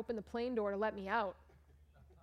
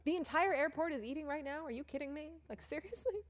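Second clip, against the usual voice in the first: can't believe the whole airport is eating; exasperated disbelief; 7 semitones higher than usual. Retold or imitated. Stranded traveler venting at the airport, exasperated disbelief. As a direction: voice climbing high in disbelief.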